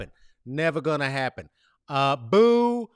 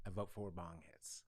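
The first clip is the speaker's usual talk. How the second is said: hushed vote; 11 semitones lower, 22 dB quieter than usual. Pretend.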